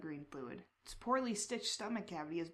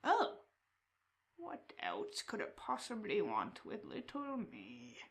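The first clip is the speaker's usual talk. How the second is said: crow man creature; slower than usual. Acted.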